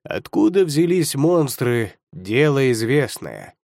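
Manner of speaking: slow, unwilling reply; reluctant. Acted. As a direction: answer without any enthusiasm. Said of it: "Без особой охоты откликнулся Баян".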